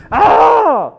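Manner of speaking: sharp high loud cry of pain; pained yelp. Retold or imitated. Driver hurts his hand changing the tire, loud pained yelp. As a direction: yelp as the wrench hits your hand.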